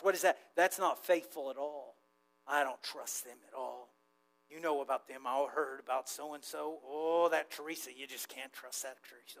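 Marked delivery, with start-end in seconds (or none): 2.5-9.4 low, soft muttered gossip; distrustful grumbling. Acted. Acting out people who don't trust Teresa, low grumble. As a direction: grumble under your breath, sinking away at the end. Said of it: "Oh, just grumbling around".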